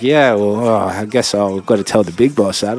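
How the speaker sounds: retold grudging, standoffish reply. Workplace caller will tell the big boss, standoffish. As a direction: hedge reluctantly, keeping your distance. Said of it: "they kinda standoffish".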